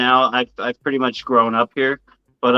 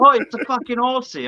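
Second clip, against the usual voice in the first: mimicking bar regulars; 12 semitones higher than usual. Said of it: "they'd be like".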